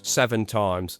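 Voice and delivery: normal talking voice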